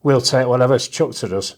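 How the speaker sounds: recites the rhyming verse with a steady comic beat; punchy rhymed recitation landing each closing line; poem reading. Acted. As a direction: perform it like a stand-up poet at a gig. Reads his poem aloud.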